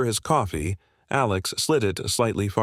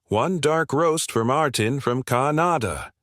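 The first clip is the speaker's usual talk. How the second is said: called out slower and higher, for the room to hear; mildly raised, drawn-out public callout; loud announcement; 5 semitones higher than usual. Acted. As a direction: announce it to the whole café. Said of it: "announced loudly".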